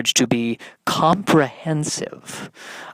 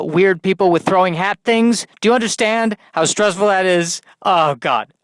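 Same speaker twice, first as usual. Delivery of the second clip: higher-pitched, worked-up rant; overwrought outburst; 5 semitones higher than usual. Acted. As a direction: play a mildly hammed-up stressed hero venting. Acted overwrought James Bond complaining.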